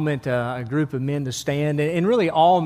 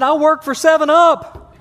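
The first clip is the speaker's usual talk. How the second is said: punchline, laughing; 11 semitones higher, 7 dB louder than usual. Acted.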